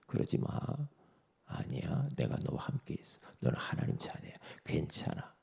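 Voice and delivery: very soft, low, half-whispered comfort; hushed and low, soothing a troubled child; God's gentle reassurance. Acted. God to a discouraged child saying it's okay, whispered reassurance. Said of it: "이렇게 말씀하는 겁니다".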